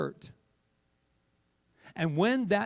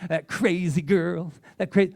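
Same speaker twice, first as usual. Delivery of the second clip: scoffing; 6 dB louder than usual. Retold or imitated. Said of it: "people are sitting at home going".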